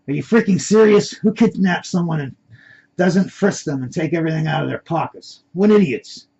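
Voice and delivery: high, loud incredulous outburst; acted outrage, voice jumping up on the insult; exasperated disbelief. Trapped man scoffs at his kidnappers.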